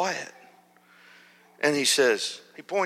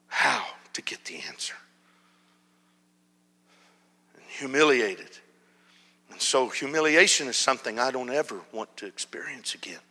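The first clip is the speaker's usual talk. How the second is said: whisper. Real, not acted. Recalling childhood humiliation.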